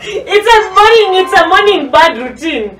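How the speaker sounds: high squawky bird voice; cartoon bird voice. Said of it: "describe your morning routine with a bird's voice".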